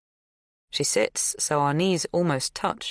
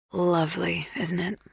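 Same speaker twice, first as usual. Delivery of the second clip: light whisper; 3 semitones higher than usual. A narrator's reading. Zoe whispers delight.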